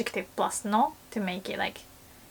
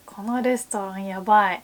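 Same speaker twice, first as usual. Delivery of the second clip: disgusted yabai. Shown as a demonstration. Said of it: "if you change the tone".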